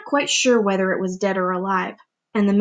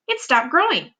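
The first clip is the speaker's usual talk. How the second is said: mild cry; 5 semitones higher than usual. Acted. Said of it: "Aunt Spiker cried".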